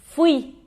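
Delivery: "fui" as fwee, stress on the I; one syllable "fui", landing on the I; Spanish stress. Shown as a demonstration. Teacher repeats the correct Spanish, "fui" stressed on I. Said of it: "Muda a sílaba tônica".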